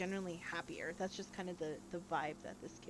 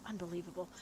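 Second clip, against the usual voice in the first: small mutter; 5 dB quieter than usual. Acted. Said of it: "very small muttering of".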